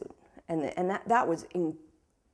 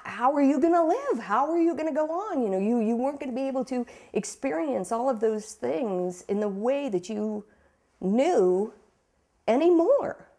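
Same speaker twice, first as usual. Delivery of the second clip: higher, emotional quote of mom; mother's grief; 5 semitones higher than usual. Retold or imitated. Daughter voicing her mother's despair, pitched higher. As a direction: let the voice rise with grief.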